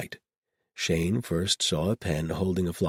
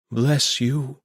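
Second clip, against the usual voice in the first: heartfelt, higher, louder blessing; fervent blessing; 9 semitones higher, 7 dB louder than usual. A narrator's reading. Marguerite thanking the shepherd for shelter, fervently. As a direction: bless him like a priest would. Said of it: "as fervently as any priest".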